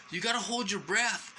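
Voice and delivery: high-pitched mimicking of a pushy order; mock bossy nurse. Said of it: "she turned into a bitch".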